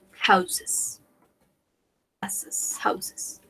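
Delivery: houses whispered softly three times; teacher whispering houses for the class; whispered repeats. Shown as a demonstration. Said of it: "we say".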